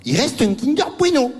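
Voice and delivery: high, hammed-up sigh of relief; mock relieved Joey. Mimicking the tennis star finding the last bar, high relief. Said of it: "il fait".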